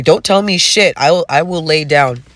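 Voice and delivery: heated rant. Acted.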